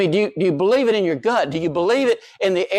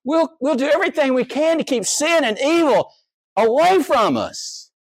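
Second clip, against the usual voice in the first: mock solemn vow; 10 semitones higher than usual. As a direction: parrot their promise back, hammed-up. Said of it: "You said".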